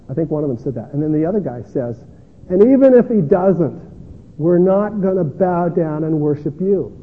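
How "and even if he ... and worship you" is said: louder, slow defiant refusal; defiant declaration. Retold or imitated. Preacher voicing the friends refusing the king, louder and defiant. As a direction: proclaim it as a bold refusal.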